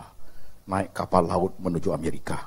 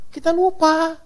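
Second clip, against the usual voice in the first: louder emphatic; 6 dB louder, slower than usual. Acted. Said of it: "repeated for effect".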